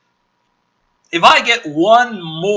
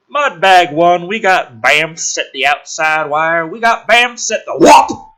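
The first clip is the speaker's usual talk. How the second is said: urgent soldier yelling on the radio, louder; radio alarm shout; 7 dB louder, slower than usual. Acted. Sentry radios base about the monsters, shouting. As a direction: call it in like a panicked sentry.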